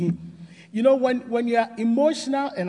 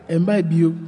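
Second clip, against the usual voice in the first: loud declaration; 7 dB louder than usual. Real, not acted. Preacher declares anger gone.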